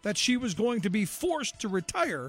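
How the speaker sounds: measured, scripted documentary read; radio history narration. A narrator's reading. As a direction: tell it like a short radio history feature. Reads a scripted history segment.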